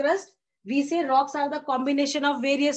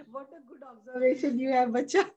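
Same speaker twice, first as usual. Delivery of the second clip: laughing. Real, not acted. Teacher amused by a student's remark.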